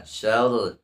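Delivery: held r in syarri; doubled ra in syarri. Shown as a demonstration. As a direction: press the r of syarri. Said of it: "ra-nya di sana ada". (ra bertasydid pada syarri)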